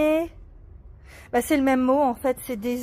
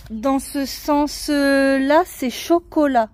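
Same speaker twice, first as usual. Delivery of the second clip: drawn-out, deliberate words; slow explaining; 5 dB louder, much slower than usual. Shown as a demonstration. Mother showing her daughter the crossword, slowly. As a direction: guide a child word by word. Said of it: "je vais te l'épeler".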